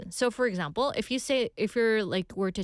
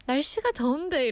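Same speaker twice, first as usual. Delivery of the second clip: high, quick trailing excuse; backing-away excuse; 6 semitones higher, much faster than usual. Acted. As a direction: mumble it while backing off. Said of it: "이러면서 뒤로".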